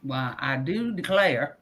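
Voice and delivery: slow mock Southern belle; slow mock Southern accent. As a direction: drawl it slowly like a fainting belle. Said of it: "southern accent".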